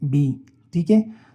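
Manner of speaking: "बी" with no puff of air; unaspirated demo. Shown as a demonstration. Teacher demonstrates the paper test. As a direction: say "बी" so the paper stays still. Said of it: "आप pronounce करें इसे बी".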